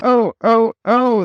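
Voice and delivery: high squealing cries; panicked little trucks squealing; screaming trucks. Acted. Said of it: "they cried again".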